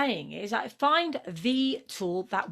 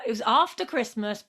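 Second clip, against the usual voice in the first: ordinary talk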